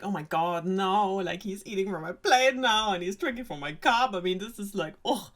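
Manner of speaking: mildly revolted retold princess; mock disgust. Princess watching the frog eat from her plate, mildly disgusted. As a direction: act put out, ending on a groaned ugh. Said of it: "she's disgusted and is like".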